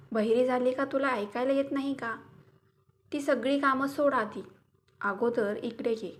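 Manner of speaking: husband calling loudly across the house. Acted. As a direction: shout for Lata, annoyed she won't answer. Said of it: "Aniruddha लताला खूप वेळची आवाज देत होता".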